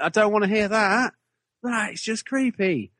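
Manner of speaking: high, frightened protest; scared voice. Retold or imitated. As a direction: squeal it out, spooked and high. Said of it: "And I'm like".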